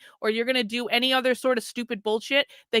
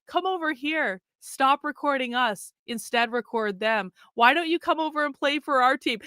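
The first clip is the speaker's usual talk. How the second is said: mock coaxing leftist. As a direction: coax her over like a recruiter. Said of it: "And the left is like".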